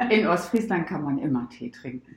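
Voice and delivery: said through a laugh; amused, laughing while speaking; joking through laughter. Real, not acted. Joke about tea drinking.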